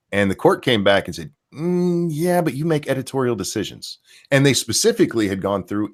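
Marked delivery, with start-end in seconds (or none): 1.5-4.0 mock skeptical rebuttal. Retold court's sceptical reply.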